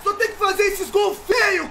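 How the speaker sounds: shrill angry yelling; raging gamer. Real, not acted. Gamer raging at FIFA goal.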